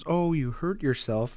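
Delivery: a hint of a tender mother; empathetic mother. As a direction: gently feel the child's hurt with them. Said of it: "there's some sadness there".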